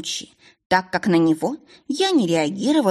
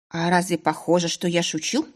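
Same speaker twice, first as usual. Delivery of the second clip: snide. Acted. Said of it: "ехидно процедила я".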